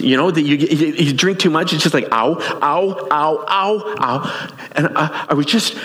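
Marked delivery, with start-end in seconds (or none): 2.1-4.6 higher-pitched repeated yelps of pain; mock-wince through a string of quick ows; acting out an icy brain freeze. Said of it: "a Slurpee brain freeze".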